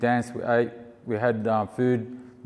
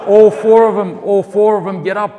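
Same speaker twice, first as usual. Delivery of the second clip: laughing disbelief; 8 semitones higher, 13 dB louder than usual. Real, not acted. Laughing as all four stand.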